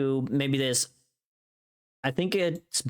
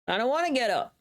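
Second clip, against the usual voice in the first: mock whiny sleeper; 10 semitones higher than usual.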